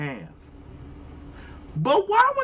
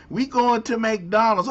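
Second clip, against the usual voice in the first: slightly higher, lilting mock-accented "We going to McDonald's"; mock accent take; 5 semitones higher than usual.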